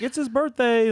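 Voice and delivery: mock MC announcing to the crowd; band introduction. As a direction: whoop it out like a stage announcer. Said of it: "he's like".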